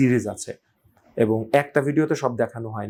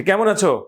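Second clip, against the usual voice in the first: "কেমন আছো?" asked higher and louder, as a clear question; question intonation; 8 semitones higher, 5 dB louder than usual. Shown as a demonstration. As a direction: lift the pitch on "কেমন আছো?" so the tone alone marks a question. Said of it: "এটা tone শুনে বুঝতে হয়".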